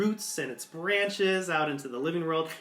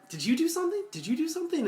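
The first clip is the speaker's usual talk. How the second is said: much higher, urgent repeated question; mock panicked tech, pitched up high; panicked technician; 14 semitones higher, much faster than usual. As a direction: fire it off in alarm. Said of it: "They're like".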